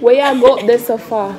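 Jamaican accent. Shown as a demonstration. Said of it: "Jamaican accent".

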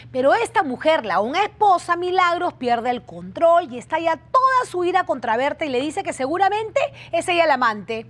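dramatic case preview with punched key words; TV presenter narration. Real, not acted. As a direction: tell viewers the outrage, building emphasis. Presentadora narra el caso a cámara. (presentadora narrando el caso con énfasis dramático)

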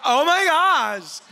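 excited wife at mile seven. Retold or imitated. Preacher imitating his wife's early marathon joy, slow and high. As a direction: gush like it's the best day ever. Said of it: "she's like".

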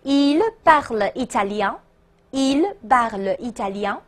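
connected French phrase at a measured pace; read-along model. Shown as a demonstration. Teacher asking students to read along, connected model phrase. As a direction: say the whole question evenly for repetition. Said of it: "跟我读啊".

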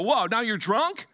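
lightly voiced startled wife; a quick mock gasp of disbelief; mock surprised wife. Pastor imagining a wife shocked by a kind husband, mock surprise. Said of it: "She shouldn't look and go".

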